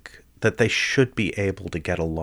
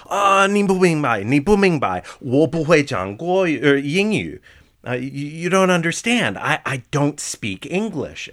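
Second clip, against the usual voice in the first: higher, louder flustered clerk insisting; panicked clerk; 9 semitones higher, 5 dB louder than usual. Retold or imitated. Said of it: "And they go".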